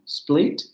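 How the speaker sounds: English pronunciation of split. Shown as a demonstration. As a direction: split said the English way, s and p blended into one cluster. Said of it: "del inglés como split".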